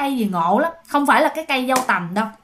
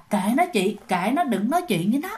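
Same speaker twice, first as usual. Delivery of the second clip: hushed coaxing; 3 semitones lower, 5 dB quieter than usual. Retold or imitated. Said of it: "giống như là kêu im đi vậy đó".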